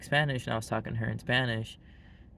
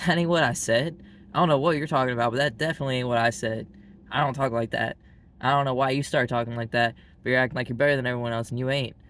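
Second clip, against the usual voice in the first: louder, defensive telling-off; mock indignant scolding; 6 dB louder, faster than usual. Grandparents scolding grandkid for talking proper, mock indignant. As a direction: imitate an offended grandparent laying into a kid.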